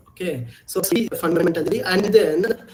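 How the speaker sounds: choppy, time-smeared echoing line; lagging voice. Real, not acted. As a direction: voice smearing on a laggy call. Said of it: "my voice is lagging".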